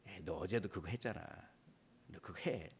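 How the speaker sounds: low, quiet coaxing Satan voice; hushed tempter. Acted. Preacher voicing Satan coaxing a believer, low and hushed. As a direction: wheedle softly like a tempter.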